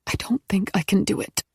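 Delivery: hushed unvoiced whisper. Woman whispering into phone so nobody hears. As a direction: breathe it so no one overhears. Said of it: "Maggie's voice dropped again".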